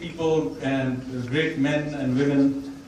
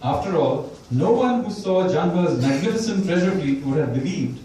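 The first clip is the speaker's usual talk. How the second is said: reading a passage aloud to an audience; steady author's reading voice; book reading. Shown as a demonstration. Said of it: "I'm gonna read the very last section of the book".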